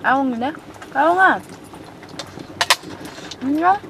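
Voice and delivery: high cooing pet voice; talking to a cat. Real, not acted. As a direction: coo at the cat. Greeting a cat warmly.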